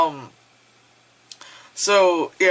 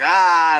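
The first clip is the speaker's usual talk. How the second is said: short loud "ah"; imitated startled cry; freaked-out mock yell; 6 dB louder than usual. Guys seeing the girl vanish, freaked-out mock yell. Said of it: "all freaked out face".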